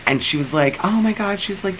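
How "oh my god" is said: much higher, squealed oh my God; very high gushing squeal; squealing neighbor. Retold or imitated. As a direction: mimic her squeal over puppies. Woman squealing over puppies.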